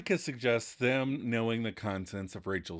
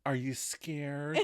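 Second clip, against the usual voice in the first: taunting; 5 dB quieter, slower than usual. Retold or imitated. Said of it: "And Monica taunts him".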